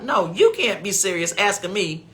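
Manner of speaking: rising to a high outraged squeak; rising mock outrage; indignant. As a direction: scold the scammer in disbelief. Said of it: "And I thought".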